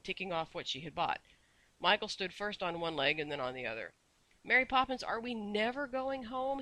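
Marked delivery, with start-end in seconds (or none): 4.4-6.6 put-on cross little boy. A narrator's reading. Boy complains to nanny, high and whiny. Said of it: "he said crossly".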